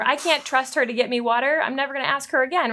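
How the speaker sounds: mock resentment.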